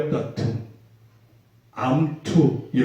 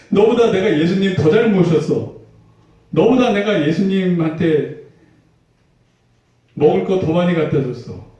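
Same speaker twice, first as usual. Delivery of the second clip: put-on higher, childish "I served him better"; petty one-upping; 4 semitones higher than usual. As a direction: squabble like a jealous kid. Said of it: "치졸하게, 치사하게 막 싸웠을".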